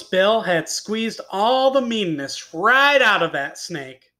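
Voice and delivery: animated tall-tale reading with punched words; expressive storyteller; story narration. A narrator's reading. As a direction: read it to children, leaning on key words. Reads a tall tale aloud.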